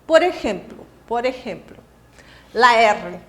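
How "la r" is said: trilled r in la R; Spanish trilled R; rolled Spanish R. Shown as a demonstration. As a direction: roll the R hard. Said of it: "La R para, pro brasileiro ... barreira".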